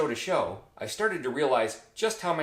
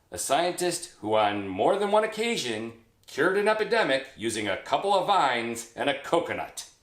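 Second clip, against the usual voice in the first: worked-up comic disbelief; mounting exasperation; 3 semitones higher than usual. Acted. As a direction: build in pitch, exasperated by the absurdity. Mounting outrage at the absurdity.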